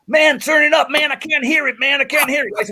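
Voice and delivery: hollering over a deafening guitar; retold scream. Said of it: "screaming at the, the guy at the front".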